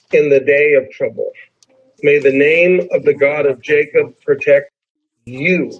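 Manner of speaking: deliberately misplaced emphasis on "you"; stress on YOU. Shown as a demonstration. Pastor misreading the psalm on purpose, stress on "you". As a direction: set "you" apart after a pause. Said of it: "purposely say this in an incorrect way".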